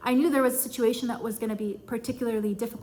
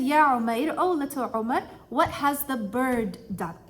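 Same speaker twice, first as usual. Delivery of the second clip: gentle comforting question. Retold or imitated. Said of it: "So he said".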